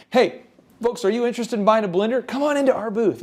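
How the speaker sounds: bright, eager booth greeting; joyful pitch. Shown as a demonstration. Demonstrating an enthusiastic booth pitch to passers-by, joyful. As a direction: sell the blender with real joy. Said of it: "say it with great joy, enthusiasm".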